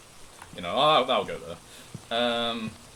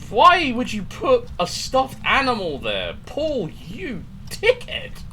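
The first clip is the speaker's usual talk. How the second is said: high, loud scared whine; 7 dB louder, slower than usual. Real, not acted. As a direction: squeal it out, freaked out. Scared by stuffed animal.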